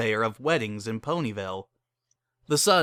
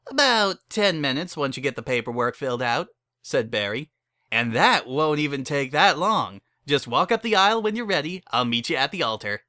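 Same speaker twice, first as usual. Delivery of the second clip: brassy saleswoman; 2 semitones higher than usual. Acted. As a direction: rattle off the package menu like a hustler.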